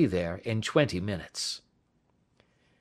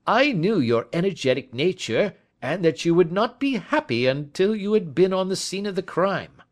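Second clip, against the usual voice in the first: higher, louder brisk police inspector; Lestrade voice; 11 semitones higher, 5 dB louder than usual. A narrator's reading. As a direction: play the confident Scotland Yard man, a step up and louder.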